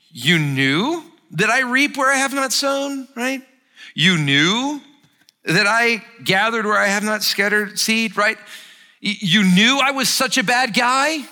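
loud, high, mocking sarcasm; sarcastic master. Master mockingly turning the servant's words against him. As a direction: throw his words back at him. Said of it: "So listen to the tone in this voice".

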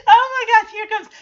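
high, loud burst of laughter; cracking up for real; laughing. Real, not acted.

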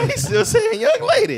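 high, drawn-out laughing words. Real, not acted. Storyteller riffs on the young lady joke, laughing. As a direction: squeeze it out slowly through laughter.

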